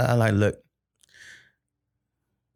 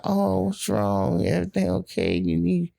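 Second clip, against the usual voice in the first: put-on concerned girlfriend; 5 semitones higher than usual. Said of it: "she was like".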